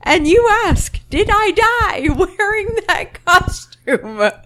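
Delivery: high mock outrage, slowing down. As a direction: scoff at the question. Mocking scorn retold.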